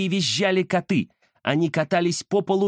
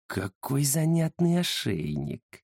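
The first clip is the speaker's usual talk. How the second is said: slow, quieter smirking drawl; 5 dB quieter, slower than usual. Acted. Ghost eyes the cat's collar with a smirk. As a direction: savour the shiny collar. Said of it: "ухмыльнулся призрак".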